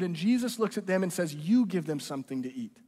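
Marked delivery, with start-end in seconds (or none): 1.3-2.8 not sarcastic. Retold or imitated. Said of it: "I don't think he's being sarcastic".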